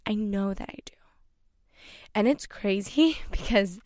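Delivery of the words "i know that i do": hushed, emotional whisper of self-belief; breathy emotional murmur to herself. Real, not acted. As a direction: whisper it as though holding back tears. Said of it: "I'm getting emotional".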